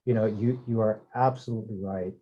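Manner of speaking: distant, off-mic sound; speaking too far from the microphone. Real, not acted. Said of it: "it sounds like you're far away".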